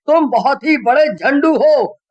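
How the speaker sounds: high, loud exasperated rant; angry scolding. A narrator's reading. Rohan scolding the two friends for dragging him in. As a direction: tell them off, fed up.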